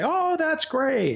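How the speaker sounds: high, slow, empty flattering gush. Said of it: "people who are just gonna say".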